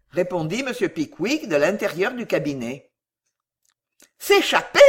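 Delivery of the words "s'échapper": high, loud incredulous cry; shocked exclamation. A narrator's reading. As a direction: echo the word in scandalised shock. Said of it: "s'écrièrent Miss Tomkins, les trois sous-maîtresses et les trente pensionnaires".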